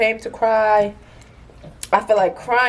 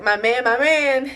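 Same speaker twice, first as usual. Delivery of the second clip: mocking sing-song; 4 semitones higher, slower than usual. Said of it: "when you bitches be like".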